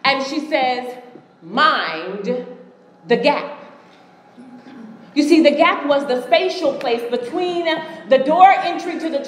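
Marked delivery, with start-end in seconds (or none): 1.4-3.6 slow, low British announcer; British accent. Retold or imitated. Woman's voice across the PA system again, British accent. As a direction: imitate a British PA voice, pausing after the first word. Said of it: "in that British accent".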